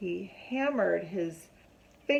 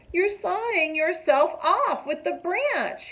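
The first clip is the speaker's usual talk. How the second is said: little sister warning; 9 semitones higher, 4 dB louder than usual. A narrator's reading.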